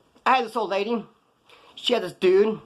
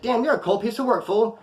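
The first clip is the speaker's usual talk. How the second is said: higher-pitched jab at a friend; lightly incredulous rebuke, pitched up; mock scolding; 6 semitones higher than usual. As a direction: call him out, half-joking.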